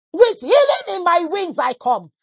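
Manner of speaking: lightly voiced voice of God; a hint of the Lord's voice. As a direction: intone it as God speaking. Speaking as the voice of God.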